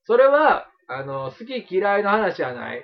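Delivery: lightly voiced punk interrogation; japanese delinquent tough talk. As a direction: loom over them like a street tough. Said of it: "まだやってんねや、俺、そのノリ".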